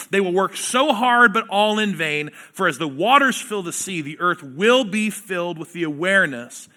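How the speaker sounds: forceful pulpit reading building up; scripture reading. Acted. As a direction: proclaim the verses with rising fire. Preacher reads scripture aloud.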